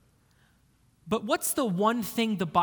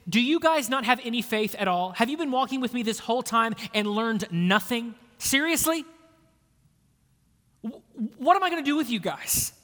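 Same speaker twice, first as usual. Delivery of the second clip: exasperated; 2 semitones higher, faster than usual. Retold or imitated. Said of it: "As if he was saying".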